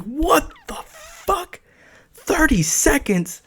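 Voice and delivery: very high, drawn-out shock without shouting; freaked-out disbelief. Retold or imitated. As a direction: squeal it slowly in acted disbelief. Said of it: "I'm freaking out now".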